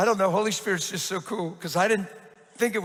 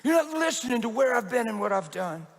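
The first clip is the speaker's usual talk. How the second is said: a little intense; 3 semitones higher than usual. Retold or imitated. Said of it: "And he was a little intense".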